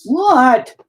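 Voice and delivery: loud, high outraged yelp; hammed-up high shout of indignation; mock furious wife. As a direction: imitate a wife getting even madder. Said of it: "she gets even more mad".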